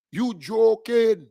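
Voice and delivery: drawn-out slow yell of disbelief; scoffing shout. Real, not acted. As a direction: stretch it out and shout it at them. Scoffing at opponents, repeated louder.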